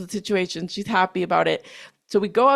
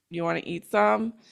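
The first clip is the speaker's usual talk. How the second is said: put-on disappointed tone, quieter; 3 semitones lower, 5 dB quieter than usual. Retelling the girl's offer of her treats: imitating someone sounding disappointed. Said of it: "just so disappointed".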